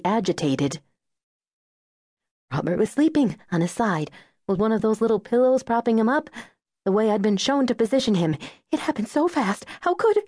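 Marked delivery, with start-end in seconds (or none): 2.5-10.2 climbing much higher until the voice breaks; mother recounting her baby's death, voice breaking; voice cracking. A narrator's reading. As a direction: let the voice crack as it rises. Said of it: "her voice cracked".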